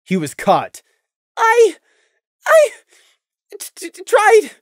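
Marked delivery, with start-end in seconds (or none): 1.4-4.5 high, stuttering frightened voice; frightened stuttering pony; trembling stammer. A narrator's reading. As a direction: stammer in terror. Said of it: "Prey trembled".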